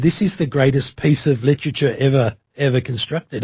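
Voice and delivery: ordinary talk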